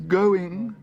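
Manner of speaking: high, loud, stretched cry; desperate auctioneer. A narrator's reading. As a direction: wail it out as a plea. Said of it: "said the auctioneer desperately".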